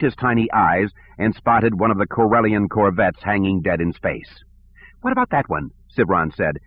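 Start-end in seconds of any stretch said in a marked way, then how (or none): 5.0-5.7 lightly voiced petty director, higher; peevish, a touch higher; whiny bureaucrat. Sivron voice.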